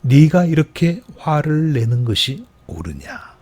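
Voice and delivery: slow, measured reading of 네가 이렇게 화를 내는 것이 옳으냐; deliberate unhurried rebuke; slow scripture reading. Shown as a demonstration. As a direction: let each word of the verse land slowly. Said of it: "말씀 그대로 읽어보겠습니다".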